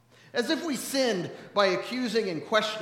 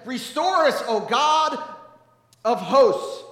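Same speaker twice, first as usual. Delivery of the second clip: louder second reading; 3 semitones higher, 6 dB louder, slower than usual. Retold or imitated. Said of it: "he got louder each time".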